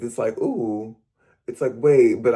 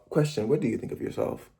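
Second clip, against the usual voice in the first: softer repeat; 2 semitones lower, 7 dB quieter than usual. Real, not acted. To silent viewers, repeating the question softly. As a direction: drop the volume and ask again gently.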